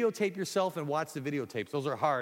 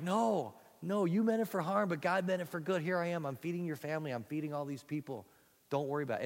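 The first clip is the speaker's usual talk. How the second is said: higher, pleading reassurance; earnest reassurance; 3 semitones higher than usual. Acted. Joseph tells his scared brothers not to worry, higher and earnest. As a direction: Joseph calming the brothers he forgave.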